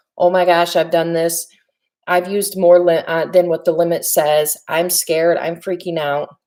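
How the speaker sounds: ordinary talk, nothing marked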